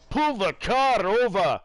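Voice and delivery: imitating an irate Newcastle passenger, high and slow; loud, drawn-out mock Geordie accent; hammed-up angry Newcastle accent; thick Newcastle accent. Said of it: "he had that real thick, kind of accent".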